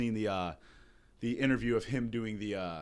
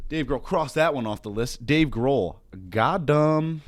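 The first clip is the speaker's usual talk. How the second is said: exasperated outburst; 7 dB louder, slower than usual. Real, not acted. Exasperated outburst about a musician.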